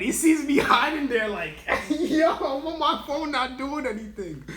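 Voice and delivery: high, loud voice cracking up with laughter; can barely get it out for laughing; laughing while talking. Real, not acted. Imagines being caught hiding.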